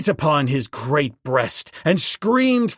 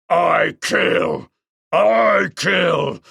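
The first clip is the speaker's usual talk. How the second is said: loud shrieks rising higher; shrieking Golat; 5 semitones higher, 5 dB louder, much slower than usual. Acted. The king ape refusing peace, rising shrieks. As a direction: shriek the threat over and over. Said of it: "shrieked Golat".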